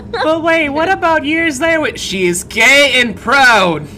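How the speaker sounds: high, loud exaggerated realization; hammed-up astonishment; mock surprise. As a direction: gasp as it dawns on you.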